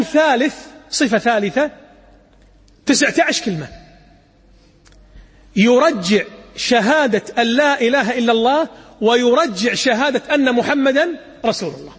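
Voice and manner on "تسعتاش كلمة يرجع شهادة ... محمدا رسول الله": ordinary delivery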